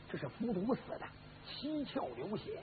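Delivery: very soft muttering to himself; hushed realization. Acted. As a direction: work it out under your breath. Examines corpse alone in the dark.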